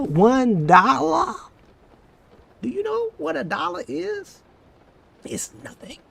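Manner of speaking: hammed-up astonishment; mock disbelief. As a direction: act scandalised at the cheap price. Mocking disbelief at price.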